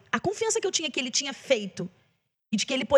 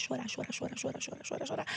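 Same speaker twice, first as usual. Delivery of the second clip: very soft, voiceless repetition; hushed retold weeping; 13 dB quieter than usual. Singer recalls crying at the song, hushed. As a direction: let the repeated words fade to a whisper. Retelling how the song made her cry.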